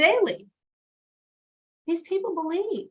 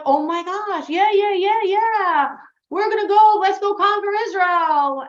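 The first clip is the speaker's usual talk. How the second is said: eager excitement; 5 semitones higher, 4 dB louder than usual. Retold or imitated. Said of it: "the Jews were like".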